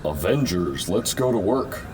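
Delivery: mocking quote. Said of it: "Tell me you're not serious about that".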